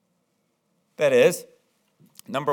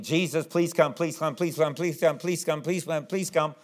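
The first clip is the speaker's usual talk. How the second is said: mock begging on a repeated loop; 4 dB quieter than usual. Jairus begging Jesus to come along, pleading insistently. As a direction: run the plea together over and over. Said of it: "he's been begging".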